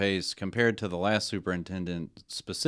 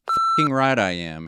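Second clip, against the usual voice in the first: slow, louder growl; 5 semitones higher, 7 dB louder than usual. Acted. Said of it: "he growled".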